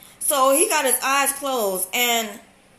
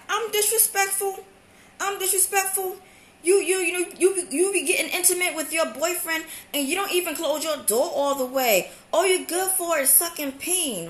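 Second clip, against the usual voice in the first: higher, outraged sarcastic rant; indignant comeback; 5 semitones higher than usual. Retold or imitated. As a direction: throw it back at her. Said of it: "So I'm like".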